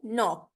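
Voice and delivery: नॉक said as "nock", k silent; silent k in knock. Shown as a demonstration. Teacher spelling then saying word: नॉक, silent k. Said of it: "के N O सी के".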